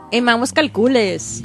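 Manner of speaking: Edward James Olmos impression. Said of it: "that's from Stand and Deliver".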